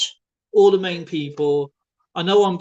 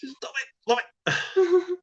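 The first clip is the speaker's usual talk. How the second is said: laughing protest; slower than usual. Real, not acted. Laughing at prank in shop.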